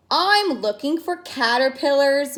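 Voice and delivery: mumbling with mouth full. Acted. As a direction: mumble through a mouthful of grass. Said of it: "mumbled Caramba, his mouth full of grass".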